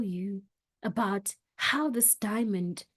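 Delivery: low-pitched storytelling. Shown as a demonstration. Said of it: "start off the story in a low pitch".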